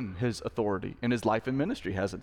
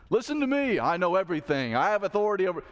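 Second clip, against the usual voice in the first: higher, pushy mock yell of a bossy fan; mock know-it-all fan; 5 semitones higher, faster than usual. Preacher imitating a bossy fan shouting from the stands, mock yell. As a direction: insist you know everything, like a fan in the stands. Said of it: "They're shouting at the players".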